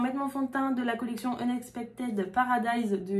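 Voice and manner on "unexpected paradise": English words with a French accent. Real, not acted. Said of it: "avec mon magnifique accent". (accent français sur les mots anglais)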